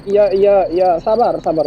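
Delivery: flustered placating. Real, not acted. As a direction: try to calm someone who is coming at you. Placating an angry game ghost. (panik sambil menenangkan)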